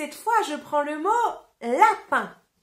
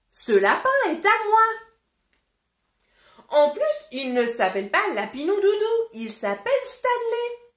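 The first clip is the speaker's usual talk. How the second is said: defiant; 6 semitones higher than usual. Acted. Emily Brown refuses to give rabbit.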